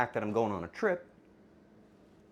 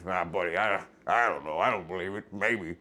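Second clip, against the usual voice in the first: cashier voice; 8 semitones lower than usual. Retold or imitated. Streamer imitating the grocery cashier, voice dropped low. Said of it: "The guy at the register's like".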